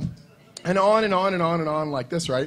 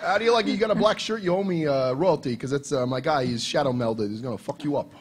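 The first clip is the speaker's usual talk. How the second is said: mock gangster. Riffing at the convention booth, mock gangster threat. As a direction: lean in like a cartoon heavy collecting a debt. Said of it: "gangster Bobby Salvatore".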